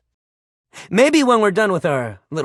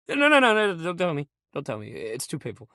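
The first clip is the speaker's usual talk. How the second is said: mock hurt; 2 semitones lower than usual. Melodramatic hurt.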